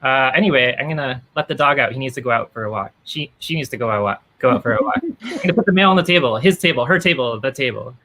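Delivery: lightly voiced flustered family member; a hint of a panicked parent. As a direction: babble the corrections nervously. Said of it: "They're like".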